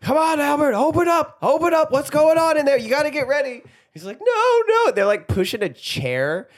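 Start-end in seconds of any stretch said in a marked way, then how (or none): 0.0-3.6 mock pleading. Armand pleading at door. 4.2-4.9 high falsetto refusal; high, hammed-up diva protest; mock diva. Starina refusing at door.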